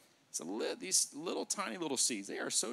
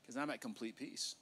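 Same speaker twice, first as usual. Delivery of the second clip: softer, settled answer; acted serene composure; calm reply; 3 semitones lower, 7 dB quieter than usual. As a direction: answer the accuser gently and at ease. Acts out calm answer to accusers.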